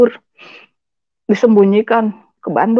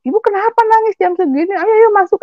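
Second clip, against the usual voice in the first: concerned guard; 11 semitones higher than usual. Retold or imitated. Beach guard coaxing crying woman.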